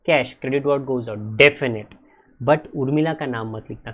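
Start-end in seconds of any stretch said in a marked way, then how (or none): 0.1-1.9 slow rule recital. Shown as a demonstration. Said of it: "I repeat".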